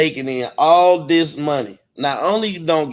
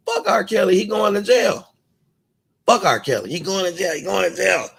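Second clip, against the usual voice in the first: mock shouting; 5 semitones higher than usual. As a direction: ham up the ranting guy's yell. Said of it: "played the video of the motherfucker talking about".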